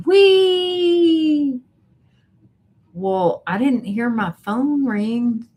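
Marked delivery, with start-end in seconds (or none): 0.1-1.6 high, loud playful whee; roller coaster whoop. Pretend. Repeating the viewer's roller coaster joke, playful high whoop. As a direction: squeal it like the drop of a ride.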